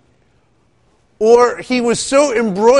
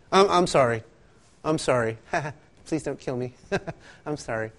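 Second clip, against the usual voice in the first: pleading apology; 4 semitones lower, 5 dB quieter than usual. Retold or imitated. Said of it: "he repented".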